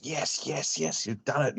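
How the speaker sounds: high-pitched, drawn-out triumphant yeses; imitating Ben's excitement. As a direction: imitate an excited mate celebrating. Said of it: "You know how he talks".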